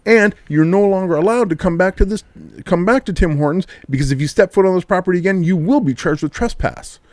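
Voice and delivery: scene-style mock cop tirade; imitating angry cop. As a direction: play the cop blowing up at a customer. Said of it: "the cop goes from zero to sixty".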